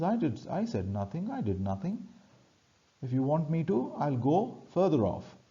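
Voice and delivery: mildly acted protest of innocence; apologetic. Trinculo offers to move away after being accused, mildly apologetic. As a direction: back off, insisting on innocence. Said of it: "he is apologetic and he says".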